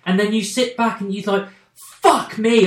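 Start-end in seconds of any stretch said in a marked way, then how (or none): 2.0-2.7 louder, higher gasped-out reaction; stunned amazement. Acted. Viewer sitting back after the big twist, stunned amazement. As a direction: let the shock land on both words.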